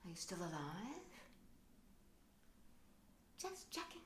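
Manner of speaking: booming call from the void, fading to a murmur; mock cosmic voice. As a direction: hail a lost human from space, then trail off. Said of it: "shouting out at me from this vast".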